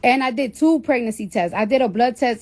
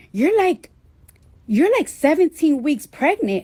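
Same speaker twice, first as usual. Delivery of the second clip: put-on Staten Island girl; 5 semitones higher than usual. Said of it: "Staten Island white girl".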